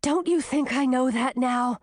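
mildly puffed retort; a touch out of breath, testy; puffing. A narrator's reading. Girl running and snapping back at snake, mildly puffed. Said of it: "puffed Gracina".

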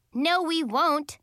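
high, loud, drawn-out contradiction; sour retort. A narrator's reading. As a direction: shoot the leader down sourly and slowly. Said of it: "giving Mistress Carol a sour look".

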